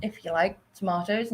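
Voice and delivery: put-on "tomatoes" with a broad ah, to-MAH-toes, in her own accent; British tomatoes. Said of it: "And I was like".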